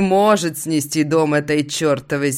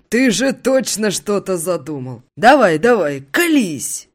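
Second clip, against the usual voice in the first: high, loud coaxing buddy; urging friend; 5 semitones higher, 5 dB louder than usual. Acted. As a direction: push him to spill it.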